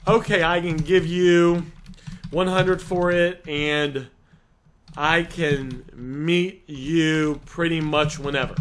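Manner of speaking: slow rambling offer that says too much; wrong way, rushing it. Shown as a demonstration. Coaching a seller on what not to text, slow and rambling. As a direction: drag the offer on with extra chatter. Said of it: "You do not wanna say this".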